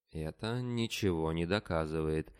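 ordinary delivery, nothing marked

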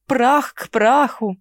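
Прах к праху loud and slow, falling hard; mocking vow. Mara mockingly offers to bury the necromancer. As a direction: stamp out Прах к праху like a sentence. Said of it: "Мы так уж и быть, поможем".

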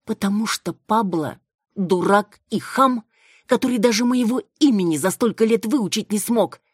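high, loud contemptuous outburst; scornful insult. A narrator's reading. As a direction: spit out the insult at full voice. Insulting the groom openly. (громко, высоко и презрительно)

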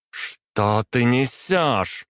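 выше и очень медленно, чужим голосом; голос срывается от потрясения; не своим голосом. A narrator's reading. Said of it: "совершенно не похожим на свой голос спросила". («несёшь» выше, протяжно, не своим голосом)

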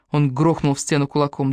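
ordinary delivery

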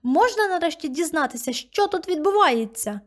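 high pitched, slowing indignant demand; angry demand. Acted. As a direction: insist on answers, voice climbing high. Girl shouting at grandmother.

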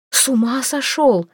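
high, jumpy alarm; startled outburst. A narrator's reading. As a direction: she leaps up in shock. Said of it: "подскочила она". (вскрик испуга)

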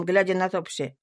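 plain reading voice

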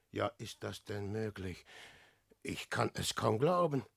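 low, soft murmur to oneself; soft, low-voiced amazement; hushed disbelief. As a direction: say it quietly, hardly believing. Disbelief at finding horse and clothes.

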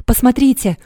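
high, loud excited cry. A narrator's reading. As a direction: shout it out, pointing in amazement. Valdemar points at ghost.

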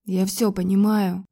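ordinary talk, nothing marked

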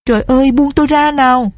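high-pitched cry to be let go; acted desperation of a trapped girl; desperate plea. A narrator's reading. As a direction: implore your captor, pitch held high. Captive girl begs to be released.

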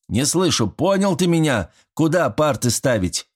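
high, sharp bark at the son. Acted. Caretaker barks at his son about the desks, barking. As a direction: bark the orders, demanding an answer. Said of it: "рявкнул Степан Григорьевич".

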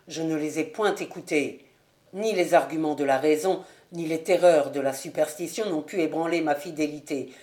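subdued, slightly low plea of a betrayed fiancé; restrained, grave appeal to the beloved; reproachful suitor. Acted. Ravenswood's reproachful plea to Lucie. (fiancé trahi, reproche contenu)

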